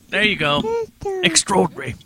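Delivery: high English voice; English accent. Pretend. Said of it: "English accent".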